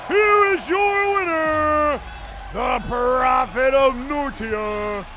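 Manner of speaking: slow, drawn-out winner announcement; ring announcer. Acted. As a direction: stretch each word like an announcer.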